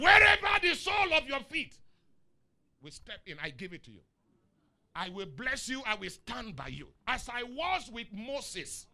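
God's voice. Acted. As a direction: thunder out God's promise to Joshua. Preacher voices God speaking to Joshua.

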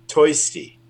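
"Toisty" with oi for ir, Bronx style; Toisty in accent. Shown as a demonstration. Rabbi repeats puppet's name "Toisty" with Bronx oi. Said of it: "this guy's name is Toisty".

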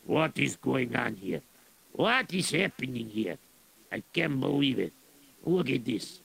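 blustering Russian general complaining about wet boots; lightly voiced grumbling general; grumpy general. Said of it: "and he was going".

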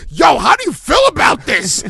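high, loud mimic of white people asking; hammed-up nosy questioner voice; mock inquiring interviewer. Mimicking white people asking him about the rapper, loud and high.

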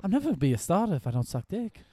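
high, quick whiny protest; hammed-up young athlete's complaint; mock desperate player. Acting the movie's basketball player.

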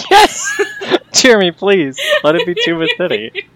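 a high, loud shout of joy, then begging; excited pleading. Real, not acted. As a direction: cheer and plead for Tuba City. Begging the GM for Tuba City.

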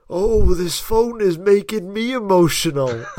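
high, wailing mock complaint. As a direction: imitate a guest theatrically fed up with interruptions. Imitating guest as phone rings again.

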